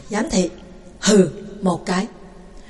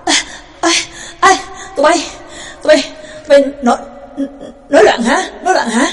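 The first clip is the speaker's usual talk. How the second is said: angry shout; 4 semitones higher, 4 dB louder, faster than usual. Acted. Old jailer shouting at rioting kids.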